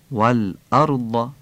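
والأرض with a crisp hamza and a heavy ر; glottal stop stressed. Shown as a demonstration. Teacher models the hamza in والأرض, slow.

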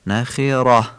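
نخره with heavy r and final h; pausal h ending. Shown as a demonstration. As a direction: end نخره on a short dark "rah".

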